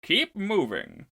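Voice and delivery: very high, slow menacing voice; Sith-like villain voice. Acted. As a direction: intone it like a villain. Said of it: "His mantra is".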